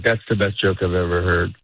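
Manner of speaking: mean it but sound bored; deadpan praise. Retold or imitated. Comedian repeats his flat praise for a joke, deadpan. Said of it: "It sounds like I hate you".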